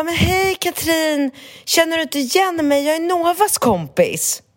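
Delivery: high, bright friendly greeting voice; imitating a cheerful guy. Retelling the apologetic friend greeting Katrin, high and cheerful. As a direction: play him up high and chummy.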